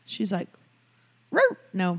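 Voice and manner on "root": mock Wisconsin accent on "Root". Mocking a friend Shelley, Wisconsin accent. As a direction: imitate a Wisconsin vowel in "Root". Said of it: "she has a slight Wisconsin accent".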